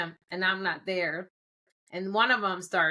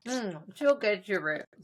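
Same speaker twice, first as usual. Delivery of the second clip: talking through a mouthful of nuts; chewing while speaking; chewing noisily; slower than usual. Real, not acted. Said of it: "I'm eating nuts".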